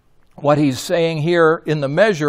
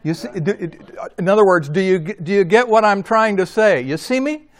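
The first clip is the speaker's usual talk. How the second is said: higher, questioning, checking you follow; student's catchphrase; 4 semitones higher, faster than usual. Retold or imitated. Preacher quoting his student's "You see me?", higher and questioning. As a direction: lift it high as a Jamaican student asking if you get it. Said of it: "his way of saying this same thing was".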